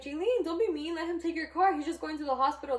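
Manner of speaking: mock a mother chiding her daughter; imitated scolding mom. Mom scolds daughter in retold quote.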